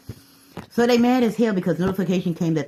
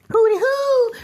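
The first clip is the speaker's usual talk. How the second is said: high calling hooty hoo; 7 dB louder than usual. Acted. Calling out police warning.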